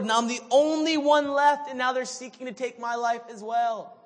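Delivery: loud, high whining repetition; broken-record whine. Retold or imitated. Elijah repeating his complaint to God, loud high whine. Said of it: "like a broken record".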